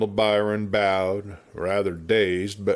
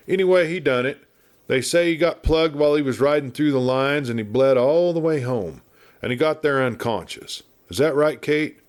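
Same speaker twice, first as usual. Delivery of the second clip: talkative frontier lawman, raised a bit in pitch; a chatty old westerner spinning yarns; garrulous old marshal; 4 semitones higher, faster than usual. Acted. Garrulous marshal rambling at the doctor, lightly voiced.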